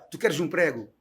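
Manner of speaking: imitated Portugal accent question; European Portuguese accent. Imitating someone in Portugal offering food, European Portuguese accent. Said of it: "Você chega em Portugal".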